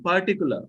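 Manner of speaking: "particular" as "paa-ticula", no R sounded; Rs dropped. Shown as a demonstration. Teacher explaining own usage, "particular" with both Rs silent. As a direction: say "particular" without either R. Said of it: "Without two R, I am using".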